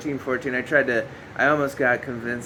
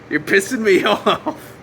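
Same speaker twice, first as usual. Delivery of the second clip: complaining through a laugh; mock annoyance breaking into laughter; laughing while annoyed; 5 semitones higher, 4 dB louder than usual. Real, not acted.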